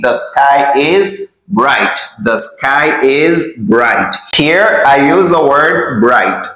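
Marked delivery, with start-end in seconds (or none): 0.1-2.0 slow, careful teacher model; slow model sentence. Shown as a demonstration. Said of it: "We say". 2.2-4.1 slow repeat. Shown as a demonstration. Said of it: "We say".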